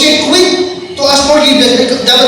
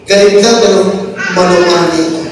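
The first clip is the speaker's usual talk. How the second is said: gentle demo; 5 semitones lower, faster than usual. Shown as a demonstration. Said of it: "Now, subukan mo".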